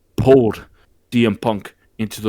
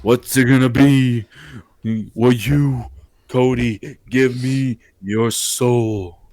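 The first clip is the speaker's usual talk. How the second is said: retold demand. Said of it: "The Rock walks down the ramp".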